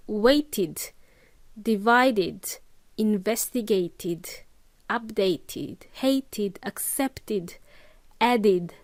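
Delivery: each verb finished on a clear "id" syllable; id endings. Shown as a demonstration. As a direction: list them one by one, "id" ending on each. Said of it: "id sound at the end".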